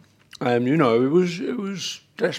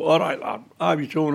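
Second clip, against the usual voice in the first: put-on Liverpool accent. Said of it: "very thick Liverpool accent he had".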